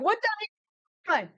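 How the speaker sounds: high, slow, drawn-out what the heck; a squeaky baffled driver; startled carriage driver. Acted. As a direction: stretch it out in shocked disbelief. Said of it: "He's like".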